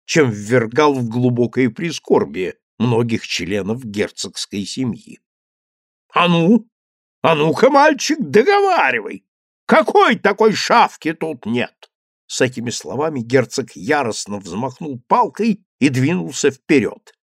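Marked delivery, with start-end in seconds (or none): 6.1-11.9 громко и выше, требовательно; напирает на мальчика; грозный окрик. A narrator's reading. Герцог наступает с палкой. (грозно, громко)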